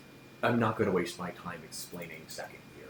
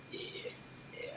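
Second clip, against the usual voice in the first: ordinary talk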